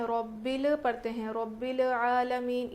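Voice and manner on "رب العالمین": bored reading. Shown as a demonstration. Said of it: "بیزارگی سے پڑھ رہے ہیں".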